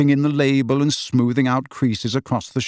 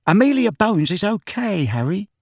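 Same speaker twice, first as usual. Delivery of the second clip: put-on high, mildly earnest young voice; 8 semitones higher than usual. A narrator's reading. Tonks vouches for Amelia Bones to Harry, earnest. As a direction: lift it high to reassure, sincerely. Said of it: "said Tonks earnestly".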